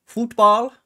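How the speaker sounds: high squeaky incredulous football; mock disbelief. Streamer mocking the word football in disbelief.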